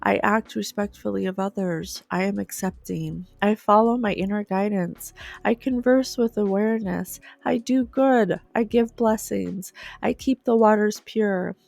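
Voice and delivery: a steady, devoted recital of the ideals; solemn reading aloud. Acted. Reads list of ideals aloud.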